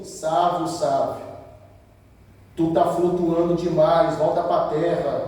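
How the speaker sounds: low, soft, weighty admonition; pastor's reproof. Retold or imitated. Pastor correcting a young worshipper, low and subdued. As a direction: imitate a pastor quietly pulling someone down. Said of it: "o pastor chegou e falou bem assim".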